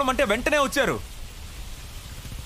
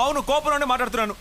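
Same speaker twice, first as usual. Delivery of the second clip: angry; 4 semitones higher than usual. Acted. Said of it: "కోపంలో మాట్లాడుతున్నావు".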